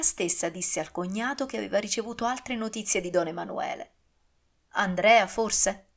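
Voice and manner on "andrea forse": exclaiming. Acted. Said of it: "esclamò don Raimondo".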